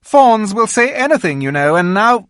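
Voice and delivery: high, sly persuading voice; queen coaxing Edmund to keep a secret, sly. A narrator's reading. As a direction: win the boy over sweetly.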